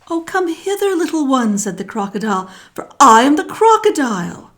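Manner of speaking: loud sly reveal; hammed-up crocodile. A narrator's reading. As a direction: announce yourself with a grin.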